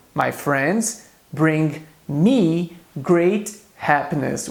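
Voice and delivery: very slow, drawn-out repeat of the example; very slow repetition. Shown as a demonstration. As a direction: stretch every word of the repeat for learners. (repetição bem lenta e arrastada)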